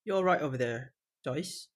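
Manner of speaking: casual mock-British delivery; attempted British accent. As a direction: tease a friend in a British accent. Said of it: "try my British accent".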